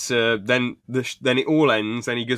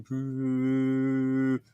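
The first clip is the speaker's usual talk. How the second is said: imitated lift noise; 4 semitones higher than usual. Imitates the bus lift rising.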